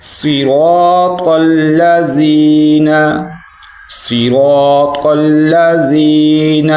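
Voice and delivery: صراط with a thick, full sad; slow model reading; heavy sad. Shown as a demonstration. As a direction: fill the mouth on صراط. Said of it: "سواد کو موٹا کریں گے۔".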